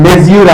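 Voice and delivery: లెజ్యూర్ with a full "-zyoor" ending; mistaken spelling-based pronunciation. Shown as a demonstration. Teacher questions how class says it, spelling-based pronunciation. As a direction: say లెజ్యూర్ as spelt, ending "yoor". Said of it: "అంటామా".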